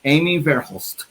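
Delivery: name drawn out in a mock European accent; slow, hammed-up European pronunciation; vague European accent. Host announcing the guest's name in a mock European accent. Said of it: "All of my European accents sound the same".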